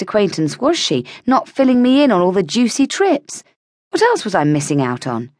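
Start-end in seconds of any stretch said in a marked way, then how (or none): none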